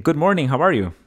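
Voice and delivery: mock teacher asking good morning; teacher's greeting. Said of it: "el maestro me estaba diciendo".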